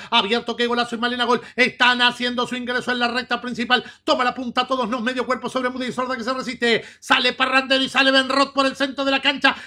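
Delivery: rapid live race call; horse race commentator. Acted.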